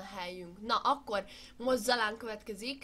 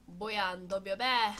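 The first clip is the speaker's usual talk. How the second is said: sports commentary. Pretend. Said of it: "én vagyok a kommentátor".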